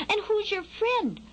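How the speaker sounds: high, slow questioning fledgling; small bird asking pointedly; little Skylark. A narrator's reading. Skylark asking the worm about his friend, high and doubtful.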